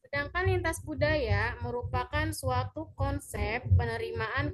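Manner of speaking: speaking up so she can be heard. Real, not acted. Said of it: "saya maksimalin ya".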